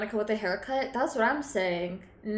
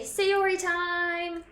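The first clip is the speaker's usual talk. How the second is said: 1 slow sing-song; 6 semitones higher, much slower than usual. Pretend. Drawn-out chant.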